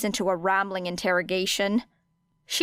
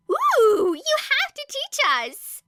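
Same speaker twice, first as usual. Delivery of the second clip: much higher, louder, slow excited plea; excited squeal; 4 dB louder, slower than usual. A narrator's reading. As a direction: bounce with glee as you beg. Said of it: "Ashido bounced in place excitedly".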